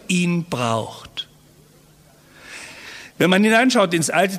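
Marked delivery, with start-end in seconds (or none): 0.1-1.3 whisper. Real, not acted. Solemn close of a thought.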